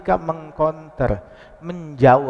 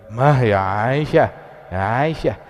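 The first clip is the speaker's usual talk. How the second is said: gentle restraint; 3 semitones lower, 3 dB louder than usual. Retold or imitated. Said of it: "Nabi Muhammad dengar begitu".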